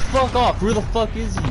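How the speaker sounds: furious panicked shouting; panicking gamer. Real, not acted. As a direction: yell it high and loud. Out of ammo, under fire.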